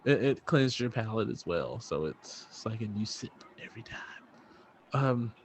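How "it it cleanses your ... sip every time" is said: smooth, quick ad-read patter, trailing softer; mock commercial read. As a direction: sell the sparkling water like a radio spot. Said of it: "Is that a commercial".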